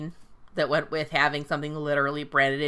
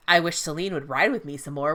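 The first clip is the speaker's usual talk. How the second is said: "I wish Selene would ride with me some more" said evenly and easily; smooth recovery. Retold or imitated. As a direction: cover the slip smoothly, as if that was the plan. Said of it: "objectively pretty fucking smooth".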